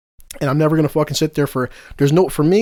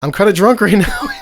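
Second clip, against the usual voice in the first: louder, higher mock-Irish voice; thick Irish accent, played for laughs; 4 semitones higher, 4 dB louder than usual. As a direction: imitate a drunk Irish caller's voicemail. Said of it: "got the thick ass Irish accent".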